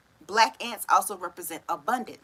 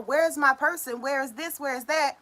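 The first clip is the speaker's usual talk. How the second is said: impatient searching; 5 semitones higher, 3 dB louder than usual. Retold or imitated. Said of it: "shaking his tree going".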